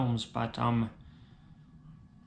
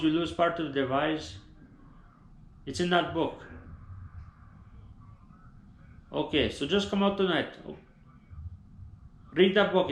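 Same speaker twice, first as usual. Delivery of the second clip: higher, chatty bro voice; bro on the phone; 4 semitones higher than usual. Acted. Bro on the phone begging friend to Buffalo Wild Wings, pushy and chatty. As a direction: pester a friend to come out.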